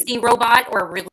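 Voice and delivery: garbled robotic mic sound; glitchy robot-like bad connection. Real, not acted. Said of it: "you sound like a robot".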